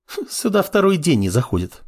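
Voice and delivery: high, scoffing female voice; snorting dismissal. A narrator's reading. Girl brushing off apprentice's worry, scoffing. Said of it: "фыркнула девушка".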